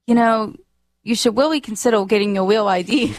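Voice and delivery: imitated R-as-W speech impediment. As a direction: say "really" and "real" with W for R, like Elmer Fudd. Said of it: "she has a speech impediment".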